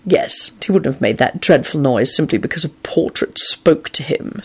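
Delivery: low-key, disdainful sneer; scowling Snape. A narrator's reading. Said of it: "Snape scowled".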